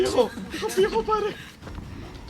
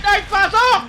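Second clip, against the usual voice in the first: laughing shout; 8 semitones higher, 10 dB louder, slower than usual. Real, not acted. Yelling while laughing.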